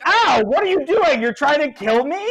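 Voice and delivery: high, loud indignant yelling; yelp, then protest the attack; Jed, hurt and outraged. Acted. Jed hit by thrown bones, outraged yell. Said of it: "and Jed is like".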